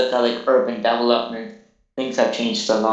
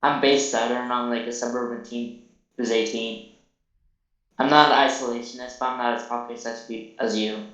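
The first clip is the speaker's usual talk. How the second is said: robot voice. Pretend. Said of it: "the robotic voice".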